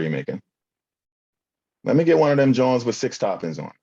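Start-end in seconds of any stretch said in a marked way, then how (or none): 1.8-3.7 louder, higher Philly accent, hammed up. Customer repeats the order in a louder Philly accent. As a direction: bark the order like a Philly regular. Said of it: "my best Philly accent".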